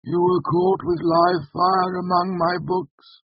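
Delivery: high, slow, controlled indignation; emotion edging in. A narrator's reading. Master archivist rebuking a student, slow and indignant. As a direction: let feeling touch a composed master's voice. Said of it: "emotion touching the edges of his voice".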